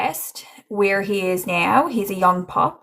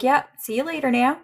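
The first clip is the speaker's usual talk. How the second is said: higher, quick casual goodbye; casual dad; 6 semitones higher, faster than usual. Retold or imitated. Medium imitating a chatty spirit's casual goodbye. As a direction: toss it off like a laid-back dad. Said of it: "He's very casual in hi-, the way he talks".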